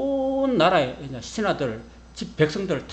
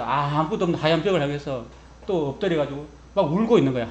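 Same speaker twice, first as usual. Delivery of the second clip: ordinary talk, nothing marked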